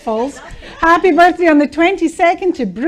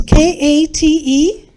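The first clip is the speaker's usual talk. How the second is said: spelled out slowly; slower than usual. Shown as a demonstration. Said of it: "this is Kay?".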